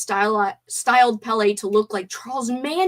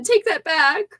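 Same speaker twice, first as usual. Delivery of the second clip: mock offended; 7 semitones higher, 3 dB louder, slower than usual. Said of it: "I'm not actually mad".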